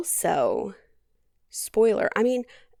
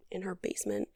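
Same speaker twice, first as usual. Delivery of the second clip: whispered reveal; 10 dB quieter, faster than usual. Real, not acted. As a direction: drop to a breathy whisper on basement. Dramatic reveal of hidden man.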